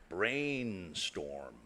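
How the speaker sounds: soft, flat robot voice; robotic voice. Retold or imitated. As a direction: say it like a toy robot. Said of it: "you'll hear a robotic voice".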